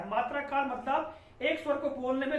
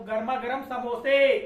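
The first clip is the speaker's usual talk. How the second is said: louder hawker's cry with समोसे held at the end; samosa seller's call; 6 dB louder than usual. Retold or imitated. Teacher imitating a samosa vendor calling to buyers. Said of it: "समोसे बेचने वाला है तो क्या बोलता है वो".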